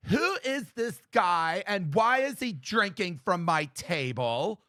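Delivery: slow, drawn-out haughty demand; mild mock snooty party girl; haughty woman. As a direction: stretch each word like an offended queen bee. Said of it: "queen of the white bitches just stands up and goes".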